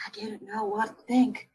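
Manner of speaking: soft hushed delivery. A narrator's reading. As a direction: drop to a near whisper. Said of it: "in a quieter voice".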